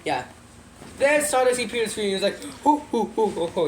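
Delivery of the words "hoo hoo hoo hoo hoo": imitated villain cackle in hoots; Kefka laugh. Villain appears on the screen, imitated cackle. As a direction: hoot out a mock evil laugh. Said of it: "He had a Kefka laugh".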